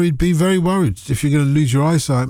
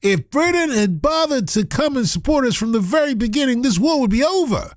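put-on American accent; 7 semitones higher than usual. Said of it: "Donald Trump would say".

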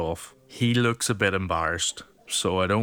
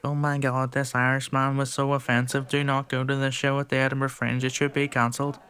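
mock-offended young fan, pitched higher; hammed-up high pearl-clutching gen Z voice; outraged young TikToker; 6 semitones higher than usual. Comedian imitating young fans posting about his show, mock outrage. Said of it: "being like".

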